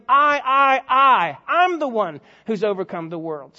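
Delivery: each "I" loud and separate, then easing off; emphatic repeated I. Shown as a demonstration. Jesus emphasizing to them, "I" punched loudly each time. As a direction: hammer "I" over and over, then finish the sentence. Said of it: "Jesus is emphasizing to them".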